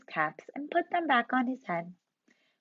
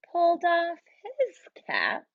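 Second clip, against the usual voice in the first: whisper; 6 semitones higher than usual. A narrator's reading. Suspense in story.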